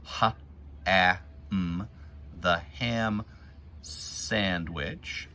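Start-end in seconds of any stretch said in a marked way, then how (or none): 0.0-1.9 stretched "Ha-am" sounded out slowly; drawn-out "Ha-am" for kids; sounding out ham. Shown as a demonstration. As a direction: sound out "Ha-am" letter by letter. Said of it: "easy word for us to sound out".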